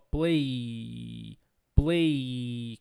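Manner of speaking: low, long drawn-out PLAY; voiced ending. Shown as a demonstration. English teacher demonstrating the voiced end of PLAY, drawn out. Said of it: "ela termina com um som vozeado".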